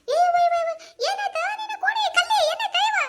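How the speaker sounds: loud, high, panicky cries to the fallen woman; alarmed calling out. Acted. Friend crying out to Kallavva who just collapsed, loud and alarmed.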